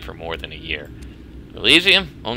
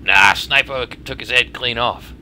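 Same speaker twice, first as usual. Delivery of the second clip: put-on Australian accent. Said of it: "my Australian accent sucks".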